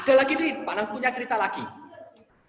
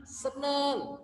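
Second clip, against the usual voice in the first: put-on joyful child; 4 semitones higher, much slower than usual. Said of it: "anak ini gembira".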